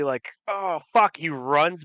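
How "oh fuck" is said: higher, louder mock panic; nervous. Arrested governor about to flee, nervous blurt. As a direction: blurt it as the cornered man. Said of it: "like, nervously".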